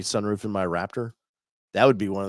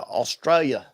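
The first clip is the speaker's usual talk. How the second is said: mock Australian accent; 5 semitones higher, slower than usual. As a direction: put on an Aussie accent for the place name. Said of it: "I put the accent in it".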